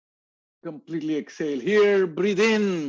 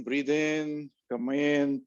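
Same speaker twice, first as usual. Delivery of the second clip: soothing breath cue; 2 semitones lower than usual. Shown as a demonstration. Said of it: "like the waves of the ocean".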